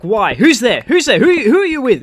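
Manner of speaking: high, loud imitation of an accusing girlfriend; jealous accusation. Jealous girlfriend interrogating him over the phone, accusing. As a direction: fire off mock-jealous questions, rising in pitch. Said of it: "that whole accusation kind of".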